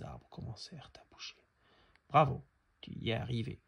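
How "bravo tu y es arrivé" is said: louder, fast joyful bravo; excited cheer. Acted. Cricket congratulates Brise as she flies, fast excited cheer. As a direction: cheer her success all in one rush.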